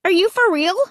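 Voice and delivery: high-pitched disbelief; astonished, pitch way up; incredulous cry. A narrator's reading. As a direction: question it as if he's crazy. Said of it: "I cried".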